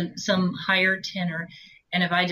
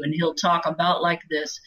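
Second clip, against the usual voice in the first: a light hint of a husband's voice; lightly voiced husband, even and monotone; Larry's voice. Shown as a demonstration. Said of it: "Larry, her husband, is the lowest voice I can possibly do".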